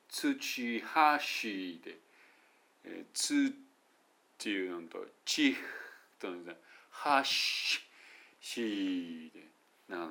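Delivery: "土橋" pulled into long separate English syllables; stretched syllables. Shown as a demonstration. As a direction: drag out each syllable of "土橋". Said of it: "長くなりますね".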